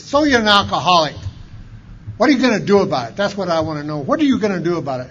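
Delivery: loud, fast demanding voice; imitating a blunt old-timer; gruff challenge. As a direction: bark it at the newcomer. Old-timer confronting him.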